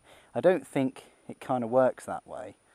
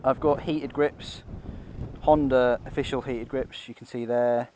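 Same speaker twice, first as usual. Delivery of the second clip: inside a motorcycle helmet. Real, not acted. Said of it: "hopefully you can hear me through, through the helmet".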